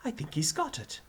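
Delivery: high, contained cheer. A narrator's reading. Teacher delighted by his pupil, cheering. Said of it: "Higgins cheered".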